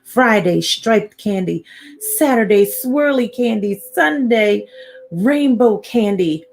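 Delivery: singsong list, each day lifted; reading to children. A narrator's reading. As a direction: tick off the days for little listeners. Reads picture book to children.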